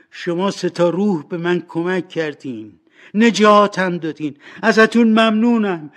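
high, loud, earnest vow; fervent tearful pleading. Acted. Scrooge vowing to the three spirits to change, pleading. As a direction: plead with all your heart, building in force. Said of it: "اسکروچ به گریه افتاد".

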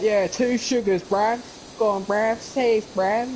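high-pitched mock London accent; hammed-up London bruv voice; attempted London accent. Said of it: "try doing the London accent".

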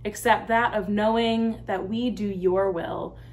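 slow, measured congregational prayer with pauses. Real, not acted. Pastor leads the church in the prayer of the day, slow and reverent. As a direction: lead the prayer in unhurried, separated phrases.

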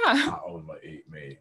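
high, slow mock quote; imitating a picky client. Co-host quoting the client's perfect answer, mock voice. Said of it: "a oddly answered question".

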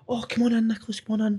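lightly voiced star inviting him in; a singer welcoming. Imitating a singer inviting him in, high and soft. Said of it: "He's like".

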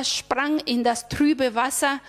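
ordinary delivery, nothing marked

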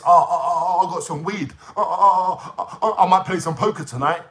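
lightly mocking, childish stammered oh oh oh. Vlogger mocks the troll's childish weed and poker talk, lightly voiced. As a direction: mimic him like a silly kid. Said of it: "on some proper childish weird shit".

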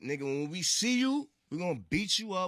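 half-laughing, hammed-up street threat; giggling through a mock threat; mock threat through laughter. Retold angry mixtape bars, laughing.

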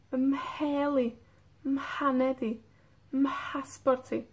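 "Mheli", "mhaneti", "mhasporti" with a breathy mh at the start; stressing the mh. Shown as a demonstration. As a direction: lean on the mh sound. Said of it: "El sonido que escuchamos es mh". (resaltando el sonido mh)

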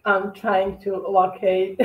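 slow, even robotic delivery. Real, not acted. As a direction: speak like a droning machine. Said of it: "I'm talking like a robot".

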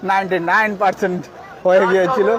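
almost-a-goal thrill; excited commentary. Real, not acted. Near goal, commentator rising.

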